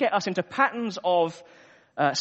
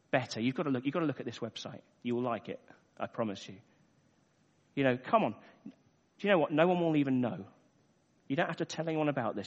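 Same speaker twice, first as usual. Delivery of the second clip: soft, coaxing murmur, much quieter, lower; tempting voice; 5 semitones lower, 6 dB quieter, faster than usual. Acted. Tempting voice from the sidelines calling a tired runner, soft coaxing murmur. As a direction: lure a tired runner over, softly. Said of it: "this voice comes and says".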